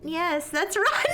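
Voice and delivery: laughing read. Real, not acted. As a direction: giggle through the line. Laughs mid-line while reading.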